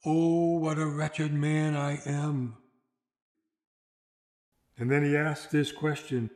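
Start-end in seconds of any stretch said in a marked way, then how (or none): 0.0-2.6 slow, changed, lamenting voice; crying out. Retold or imitated. Paul cries out again to God, slow lament. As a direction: cry out once more in despair. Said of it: "he again cries out".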